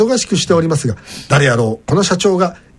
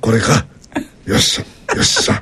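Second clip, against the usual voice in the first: fake Kansai dialect. Host voicing the president arriving at the shop, fake Kansai accent. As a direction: play the boss with a hammy Kansai accent. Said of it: "こういうのが嫌ですよね".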